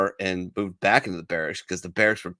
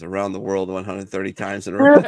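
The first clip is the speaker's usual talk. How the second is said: flat robotic radio voice; 2 semitones lower, 6 dB louder than usual. Retold or imitated. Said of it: "a robotic voice on the radio says".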